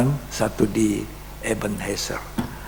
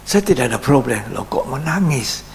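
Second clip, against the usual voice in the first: raised, mildly baffled retort; puzzled protest; 3 semitones higher than usual. Retold or imitated. Pastor baffled by a caller crying over him, puzzled protest. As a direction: react with mock bafflement at the tears.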